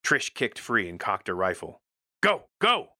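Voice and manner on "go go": high, loud desperate yell; urgent shout. Acted. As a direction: scream at her to run. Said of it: "I shouted".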